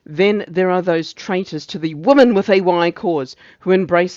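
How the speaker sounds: declaimed speech with a touch of heat; ranting officer's denunciation. Acted. Officer accusing traitors to the cause, lightly ranting. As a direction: denounce the traitors, mildly heightened.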